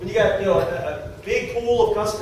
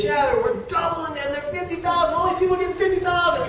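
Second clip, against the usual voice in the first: big announcement; 10 semitones higher than usual. Retold or imitated. President to the crowd, a mock grand announcement. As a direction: proclaim the news grandly. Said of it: "He goes".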